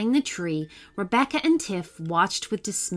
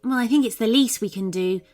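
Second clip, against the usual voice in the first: put-on higher, bright-eyed young unicorn voice; unicorn Tiff's voice; 3 semitones higher, 4 dB louder, faster than usual. Tiff the unicorn to Rebecca, hungry for soup, pitched-up unicorn voice.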